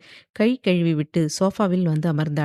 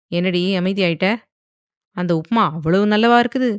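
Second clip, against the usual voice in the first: teasing, rising louder jab; mocking; 4 dB louder than usual. Husband teasing silent wife at breakfast, mocking and louder. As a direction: needle her about the upma. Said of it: "என்று ஆதி நக்கலாக கேட்க".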